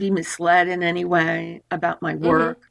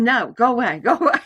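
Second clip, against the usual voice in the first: shooing away; 2 semitones higher, faster than usual. Retold or imitated. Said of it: "in my head going".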